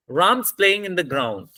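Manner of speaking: evenly timed beats on "Ram's", "playing" and "ground"; even stress-timed rhythm. Shown as a demonstration. Teacher showing students how to say the sentence, even beats on "Ram's", "playing", "ground". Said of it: "the time between Ram and play".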